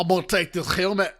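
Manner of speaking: mock Scottish-American villain voice; imitating a villain with a Scottish-American twang; weird Scottish-American hybrid. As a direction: put on a muddled Scottish-American accent. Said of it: "Why is his voice a weird Scottish-American hybrid now".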